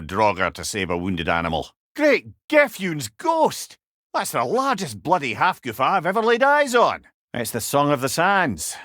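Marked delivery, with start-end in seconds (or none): 2.0-7.0 astonished exclamation. Real, not acted. Sudden sight of a huge creature.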